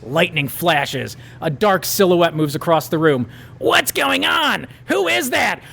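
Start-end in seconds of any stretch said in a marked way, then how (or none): 3.6-5.6 high, slow panicked voice; tied-up bully crying out in fear; scared bully. Acted. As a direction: wake up terrified and confused. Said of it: "Roger flails".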